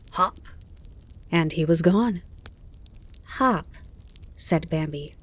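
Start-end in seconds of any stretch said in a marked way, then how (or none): 0.1-0.4 grasshopper's hop. Acted. Grasshopper leaps away. 3.4-3.7 puzzled little echo; puzzled, astonished. A narrator's reading. Fawn watching the grasshopper vanish, puzzled. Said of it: "rather puzzled and astonished".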